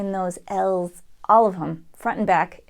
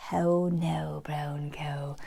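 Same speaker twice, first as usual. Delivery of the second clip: whispered, lower Irish how now brown cow; Irish accent; 5 semitones lower, 9 dB quieter, much slower than usual. Shown as a demonstration. Teacher whispering an Irish how now brown cow. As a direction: breathe the Irish ow lightly. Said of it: "one of the ways they say ow in Ireland".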